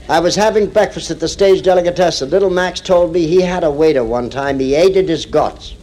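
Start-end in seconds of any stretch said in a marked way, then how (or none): 4.6-5.7 put-on deli owner's accent, drawn out slowly; slow accented delivery, dropping the H in "hated"; imitated deli owner's accent. Comic quoting deli owner on his waiter, imitated accent. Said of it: "Just the way he said".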